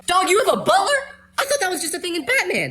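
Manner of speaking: high, laughing "you have a butler?"; laughing disbelief. Real, not acted. Stunned and laughing at his friend's butler. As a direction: crack up in disbelief at a rich friend.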